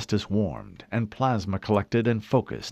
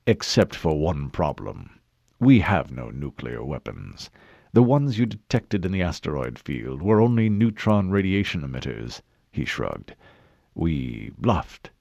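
a hint of a smug governor, lower; mocking governor; 5 semitones lower than usual. Governor mocking the admiral over fake nukes, smug and low. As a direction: let the bluff out slyly, pleased with yourself.

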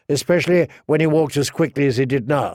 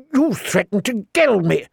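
higher, indignant whine; shrill; 7 semitones higher than usual. A narrator's reading. Joffrey accusing Tyrion before the court, shrill and high. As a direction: squeal it out like an offended boy. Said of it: "Joffrey said shrilly".

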